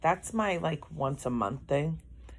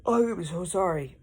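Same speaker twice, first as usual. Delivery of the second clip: yawning apology; 4 semitones higher, 4 dB louder than usual. Real, not acted. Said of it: "I am yawning so much".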